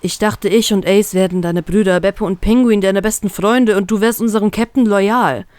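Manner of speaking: hurt, escalating accusation. Acted. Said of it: "immer lauter werdend".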